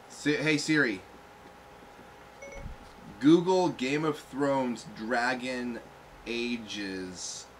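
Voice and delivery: slow, stoned voice command. Real, not acted. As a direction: spell it out slowly to the phone. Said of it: "I'm stoned".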